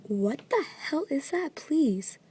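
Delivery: loud, high, slow exclaim; real loud alarm. Real, not acted. Filming the boom at the window, a loud alarmed cry. Reacting live to the noise.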